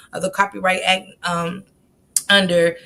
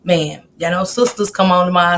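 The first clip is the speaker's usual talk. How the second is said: usual speaking voice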